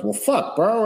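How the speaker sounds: squeaky high cobra voice; voiced cobra. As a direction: play the sassy cobra, pitch jumping up. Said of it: "And the cobra goes".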